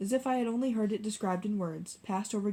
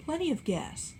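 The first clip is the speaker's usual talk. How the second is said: much higher, hearty bluster; boisterously; 8 semitones higher than usual. A narrator's reading. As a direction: boom it out boisterously. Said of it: "said Tom boisterously".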